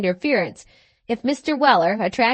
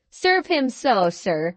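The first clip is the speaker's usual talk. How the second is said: a touch louder, firm and insistent; slower than usual. Acted. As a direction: repeat it as a demand, mildly raised. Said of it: "reiterated Slurk in a loud voice".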